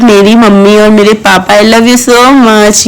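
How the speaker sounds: drawn-out, loving declaration; affectionate. Real, not acted. Daughter to her mummy and papa, affectionate. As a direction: stretch it out fondly, very slowly.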